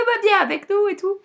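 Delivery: high, bright-voiced friend inviting; friendly girl voice. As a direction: sound like a chirpy friend. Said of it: "Elle fait".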